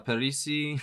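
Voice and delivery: slight unplanned accent on Parisi; accidental accent. Real, not acted. Reader stumbling through musicians' names, slight accidental accent. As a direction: slip lightly into an accent on the surname. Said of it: "don't know where the accent came from".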